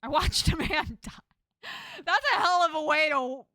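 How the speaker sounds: loud, brash cousin voice; big, exasperated acted telling-off; scolding cousin. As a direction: holler a rough welcome at a cousin.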